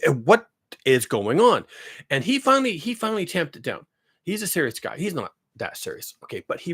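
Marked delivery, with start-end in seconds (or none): 0.1-1.6 incredulous outburst. Retold or imitated. Looking at the radar image, shouting in disbelief at Kansas. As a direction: blurt it out at the radar. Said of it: "I'm saying".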